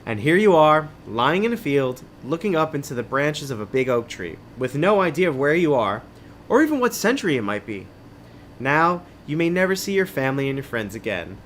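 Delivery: measured, dramatic adventure-book reading; story narration. A narrator's reading. Host reading an adventure book to listeners, story narration. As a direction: read it like a suspenseful tale.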